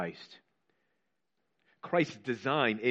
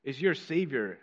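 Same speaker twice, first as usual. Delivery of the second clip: higher, pressing questions thrown at David; mocking challenge; 4 semitones higher than usual. Preacher voicing a doubter taunting David, pointed challenge. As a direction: needle him like a doubting accuser.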